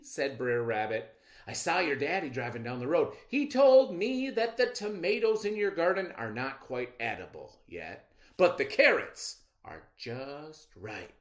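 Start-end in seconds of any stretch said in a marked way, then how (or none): 1.5-11.1 louder, higher con-man patter; smooth-talking trickster. Acted. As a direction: sell the lie with charm. Rabbit lies again.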